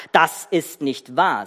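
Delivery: very slow, firm denial; hard, unyielding. Acted. Joseph rejects the brothers' defence, hard and slow. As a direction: refuse to budge, mildly hard. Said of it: "Aber Josef blieb hart".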